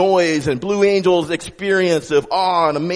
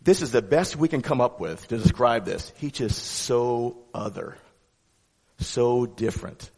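hushed awe; 4 semitones lower, 5 dB quieter than usual. Retold or imitated. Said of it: "they're pretty well saying".

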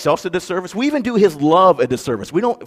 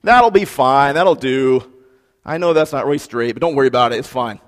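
lightly voiced casual shrugging god; mock careless shrug. A careless god settling for less, mock casual. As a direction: toss it off like you don't care. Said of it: "our God never says".

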